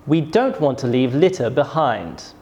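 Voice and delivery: "behind" falling at the end; falling statement intonation. Shown as a demonstration. Teacher demonstrates a statement, falling tone on "behind". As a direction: let the voice drop on "behind". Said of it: "My voice goes down at the end".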